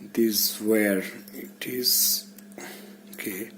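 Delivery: slow whisper, half under his breath; whispered to himself. Real, not acted. Maker talking to himself while wiring, whispered. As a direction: murmur it as you spot the wire. Fiddling alone with a wire.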